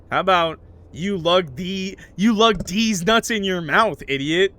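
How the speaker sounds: slow, loud hammed-up threat; mock aggressive. Streamer hams up a tough-guy threat at chat, mock aggressive.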